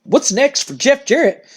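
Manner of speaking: slow, puzzled repeat of the question; confused mock echo. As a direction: echo it back like it's a dumb question. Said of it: "looks at him confused and goes".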